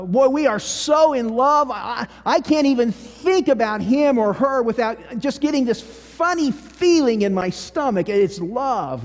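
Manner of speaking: gushing lovestruck quote. Retold or imitated. Someone gushing about being in love, mock lovestruck. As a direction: play up a lovesick gush lightly.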